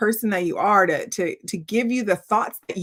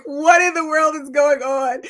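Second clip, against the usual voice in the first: high, loud baffled question; 9 semitones higher, 8 dB louder than usual. Retold or imitated. To the family at the celebration, loud and baffled. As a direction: ask it as if nothing makes sense. Family confused by the phone call.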